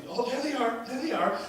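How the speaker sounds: calling out on spotting a loved one; excited spotting. Retold or imitated. Greeter on the observation deck spotting a loved one, excited.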